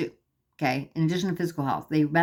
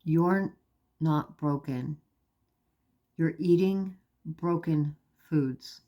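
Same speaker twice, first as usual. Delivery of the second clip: slow, gentle reassurance with long pauses; calm, loving voice; slower than usual. Retold or imitated. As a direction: reassure tenderly, leaving space between phrases. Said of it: "this just calm, loving voice said to me".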